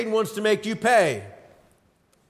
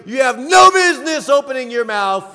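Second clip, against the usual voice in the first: Satan's scolding; 3 semitones higher, 6 dB louder than usual. Retold or imitated. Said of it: "he's gonna blow it up real big and tell you".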